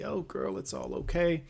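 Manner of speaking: lightly acted cooing reassurance; mock comforting. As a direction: imitate a commenter soothing her. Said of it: "People will comment and tell me".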